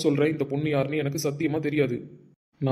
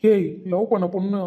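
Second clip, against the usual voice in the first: higher, slow, indignant echo; outraged disbelief; 4 semitones higher, 4 dB louder, slower than usual. Acted. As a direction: repeat the claim as if it's absurd. Shocked at being called her lover. (ஆத்திரத்தோடு நம்ப முடியாமல்)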